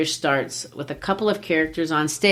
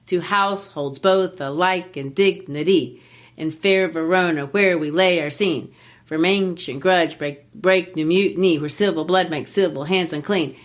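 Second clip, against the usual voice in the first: hammed-up verse meter, every second syllable stressed in "To households both alike in dignity"; exaggerated iambic beat. Shown as a demonstration. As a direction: bounce weak-strong through "To households both alike in dignity". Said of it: "I made it exaggerated".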